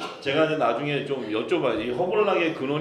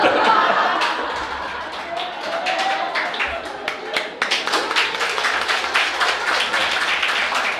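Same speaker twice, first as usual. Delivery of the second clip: high unvoiced laughing fit; big burst of laughter; 5 dB louder than usual. Real, not acted. Pastor laughing at his own joke. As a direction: break up laughing, high and breathless.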